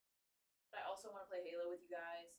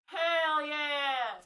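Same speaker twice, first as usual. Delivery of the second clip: loud, higher shouted hell yeah; 5 semitones higher, 14 dB louder than usual. Real, not acted. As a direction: yell it out in triumph. Hell yeah shouted second time.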